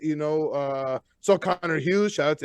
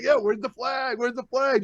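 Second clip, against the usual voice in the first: mock heckle; 5 semitones higher than usual. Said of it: "joking around".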